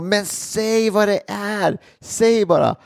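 mock impatient demand. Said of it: "Och de bara".

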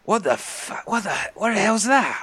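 high-pitched, stammering alarm; startled. Acted. Bjorn hearing banging on the hull, startled and high. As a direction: blurt it out, restarting as you go.

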